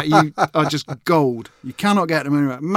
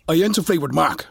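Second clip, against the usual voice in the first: put-on lightly aggressive Southern accent. Co-host correcting the impression, aggressive Southern accent. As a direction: challenge them in a Southern accent. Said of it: "aggressive Southern thing".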